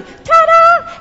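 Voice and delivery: high, loud inner celebration; proud showy burst; triumphant ta-da. Acted. You secretly celebrating before your family, triumphant shout. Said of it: "And so you're going".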